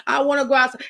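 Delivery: lightly imitated child's whine; a touch of retold kiddie whining; whining little boy. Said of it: "he was still whining".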